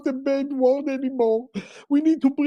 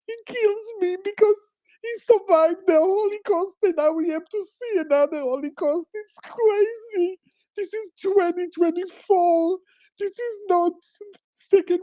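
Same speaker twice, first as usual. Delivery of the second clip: choked up, fighting tears; crying; 5 semitones higher than usual. Real, not acted. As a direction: voice breaking into tears. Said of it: "I'm crying".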